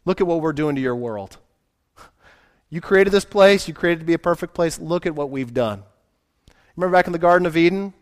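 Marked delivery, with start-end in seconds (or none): 0.0-5.8 mocking devils. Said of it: "They mock God and say".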